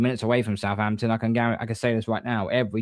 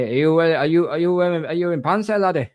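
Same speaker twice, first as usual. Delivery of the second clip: higher-pitched, hammy Scottish imitation; poor Scottish accent; 6 semitones higher, 3 dB louder than usual. Bloke in the bar quizzing a kilt wearer, poor Scottish accent. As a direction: put on a bad, lilting Scottish accent. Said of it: "That was the poorest Scottish accent".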